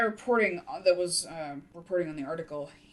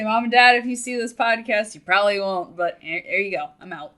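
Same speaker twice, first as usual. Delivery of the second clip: excited shout; 3 semitones higher, 10 dB louder than usual. Real, not acted. Coming out to parents on podcast.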